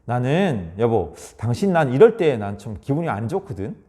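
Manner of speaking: low, gentle honest telling; calm sincere talk to spouse; calm I-statement. Shown as a demonstration. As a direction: share your feelings calmly. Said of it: "자신의 정보를 많이 좀 들려주라는".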